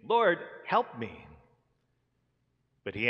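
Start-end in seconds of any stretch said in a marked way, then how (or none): 0.0-1.2 slow, high, loud cry for help; pleading worship. A narrator's reading. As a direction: draw out the plea, raised and emphatic. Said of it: "came and worshipped him, saying".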